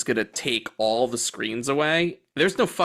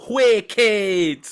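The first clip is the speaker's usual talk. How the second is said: mock British hipster; 6 semitones higher, 5 dB louder than usual. Mocking the British hipsters again.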